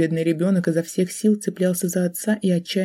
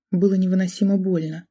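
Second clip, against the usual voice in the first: ordinary delivery, nothing marked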